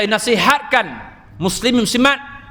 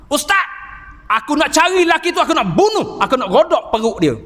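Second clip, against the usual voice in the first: raised, fast, vengeful outburst, much higher; furious threat; 4 semitones higher, faster than usual. Retold or imitated. The nephew vows to kill the man in front of the ustaz, in a furious higher outburst. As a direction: fume like a man ready to kill.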